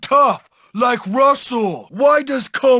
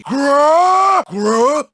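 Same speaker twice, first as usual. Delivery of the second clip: puzzled growl. Acted. Bully reacts with grunts.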